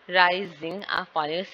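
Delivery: rising and falling slowly split, first syllables stressed; stress by pitch. Shown as a demonstration. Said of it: "एक word की जो high और low pitch है".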